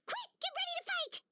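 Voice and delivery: battle cry. Acted. Battle call.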